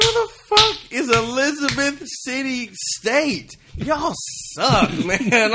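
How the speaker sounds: high, loud laughing rant; mock outrage. Podcast host retelling his reaction, mock yelling at his college. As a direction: yell it at your losing college team. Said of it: "I said".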